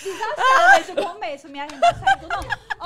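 laughing through the words, pitch shooting up; giggling at herself. Real, not acted. Laughing at her own clumsiness.

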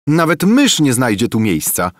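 high, loud squeak of a crowded farmer's wife; squeaky wife. A narrator's reading. Farmer's wife squeals at the monk that there is no room, high squeak. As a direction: pipe it up high and sharp, like a squeal. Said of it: "pisnęła żona".

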